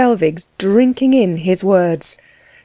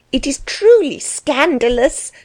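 higher, indignant outburst; excited cry; 6 semitones higher than usual. A narrator's reading. Frau Delvig outraged over the verses, higher excited cry. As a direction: cry it out in a scandalized fluster. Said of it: "cried his wife, greatly excited".

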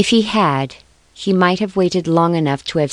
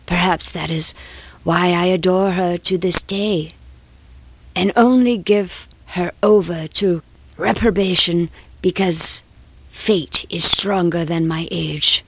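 passionate confession. Acted. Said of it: "the passion of confession long suppressed".

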